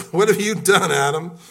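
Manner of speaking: loud, high booming challenge; God's stern demand. Acted. God loudly confronting Adam over the fruit. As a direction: call him out, loud and stern.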